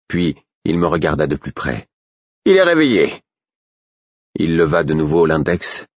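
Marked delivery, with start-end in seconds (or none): 2.4-3.2 high, louder sudden alert; surprised. A narrator's reading. Guillot suddenly notices the prisoner is awake, surprised. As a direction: blurt it out on noticing.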